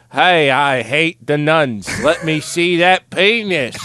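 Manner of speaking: put-on slow Boston accent. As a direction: lay on the Boston drawl. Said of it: "You sounded like Ben Affleck".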